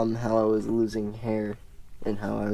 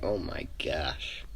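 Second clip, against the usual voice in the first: hushed, unvoiced gasp of disbelief; whispered aside; 6 semitones lower, 8 dB quieter, slower than usual. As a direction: whisper it in shock. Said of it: "this guy's like".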